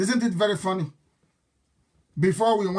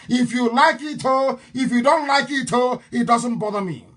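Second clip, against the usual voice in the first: defiant shout; 3 semitones higher than usual. Real, not acted. Defiant to listeners.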